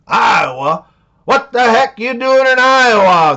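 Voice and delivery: drawled Texan disbelief, "Iowa?" rising; a Texan bartender who can't believe it; Texan bartender, incredulous. Acted. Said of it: "the bartender asks".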